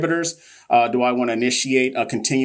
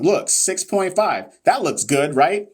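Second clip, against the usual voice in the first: sarcasm; 6 semitones higher, slower than usual. Pretend.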